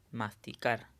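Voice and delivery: "masticar" said aloud with weight on the final "car"; stress on CAR. Shown as a demonstration. Teacher demonstrating the tonic syllable, "masticar" with CAR stressed. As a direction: lean on the last syllable of "masticar". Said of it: "tenemos que pronunciar en voz alta".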